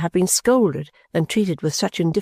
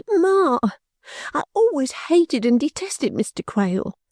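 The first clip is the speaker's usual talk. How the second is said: much higher, tearful outburst; sobbing; 8 semitones higher than usual. A narrator's reading. Caddy protests to her mother about Mister Quale, sobbing. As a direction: wail it through tears. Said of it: "sobbed Caddy".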